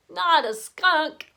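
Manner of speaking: slow pinched nose voice; holding nose. Acted. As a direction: talk with nose held shut. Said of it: "They all sounded as if they had colds".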